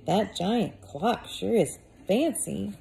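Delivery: slow, wide-eyed innocence; innocent voice. Acted. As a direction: play it sweetly innocent. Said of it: "his most innocent voice".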